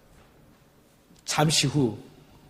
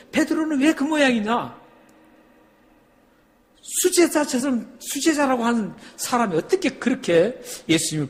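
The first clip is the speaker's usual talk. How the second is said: higher, exasperated scolding of Peter; mock indignant accuser; 8 semitones higher than usual. Preacher mimics critics scolding Peter, high indignant. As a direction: voice the critics sneering at the disciple.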